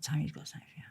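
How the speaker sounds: unvoiced whispered aside. Whispering to her that Tony has a gift for her. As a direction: breathe it like a secret. Retold whisper in gang scene.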